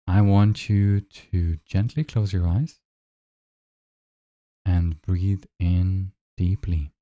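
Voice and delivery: unhurried guide with long silences between phrases; measured meditation voice, leaving room to breathe; guided meditation. Acted. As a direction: lead them gently into noticing the breath.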